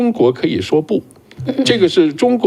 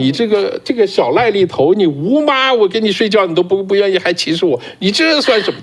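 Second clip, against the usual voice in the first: a lightly voiced aggrieved Ah Q, pitched higher; half-acted Ah Q complaining he's looked down on; light, higher-pitched impression of a wronged Ah Q; voicing Ah Q; 5 semitones higher than usual. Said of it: "就像那阿Q似的".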